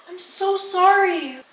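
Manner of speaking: gasping, high apology; real startled sorry after cracking laptop. Real, not acted. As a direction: blurt it out after a gasp.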